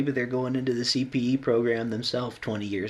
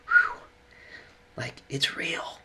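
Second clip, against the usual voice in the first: slow, higher, moved; choked up a bit; 8 semitones higher, 4 dB louder, slower than usual. Real, not acted. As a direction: draw it out after a heavy exhale. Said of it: "I'm getting choked up a bit".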